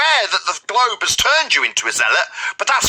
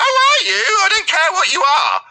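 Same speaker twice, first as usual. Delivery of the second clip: angry shout; 13 semitones higher than usual. Real, not acted. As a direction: blast it back in disbelief. Heated argument, mocking reply.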